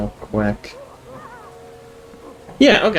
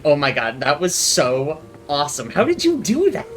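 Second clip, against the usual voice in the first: excited gushing; 2 semitones higher than usual. Acted. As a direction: gush like a starstruck fan. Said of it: "Lindsay immediately stops ... saying".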